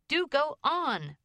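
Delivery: high, drawn-out whine of impatience; impatient. A narrator's reading. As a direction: nag them to continue, pitched high and slow. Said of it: "impatient at the delay".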